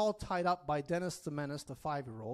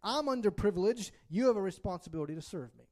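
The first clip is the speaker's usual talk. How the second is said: higher, louder whine rushed out fast; lightly hammed-up entitlement; mock entitled complainer; 3 semitones higher, 5 dB louder, faster than usual. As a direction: play the entitled victim demanding service. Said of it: "Or it says".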